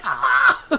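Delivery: mock cry with laughter near; half-hearted scream like the trapped kid; imitated cry.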